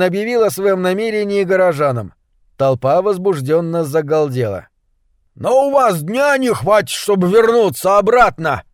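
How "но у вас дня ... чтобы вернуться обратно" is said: high-pitched worried exclamation; exclaiming. A narrator's reading. Townsman warning travellers they won't get back in a day, exclaiming. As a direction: cry out in alarm, voice pitched up. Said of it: "воскликнул Найми".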